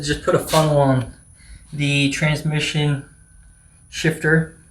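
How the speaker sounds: talking with something in mouth; mouth full. Real, not acted. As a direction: speak around something in your mouth. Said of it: "Sorry, I got something in my mouth".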